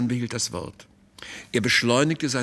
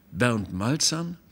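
incredulous; slower than usual. Acted. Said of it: "fragte Theo Busbeck ungläubig".

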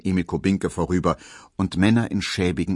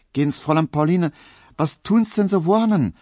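much higher, louder, quick Viennese dialect; 10 semitones higher, 4 dB louder than usual. Acted. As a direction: fuss over her in Viennese dialect. Viennese Poldi speaks.

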